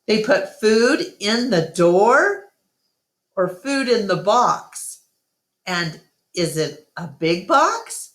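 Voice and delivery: put-on high, eager little elephant girl; young Ruby voice. Narrator voices little Ruby asking Ivan. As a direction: ask like a curious child. Ruby's curious questions.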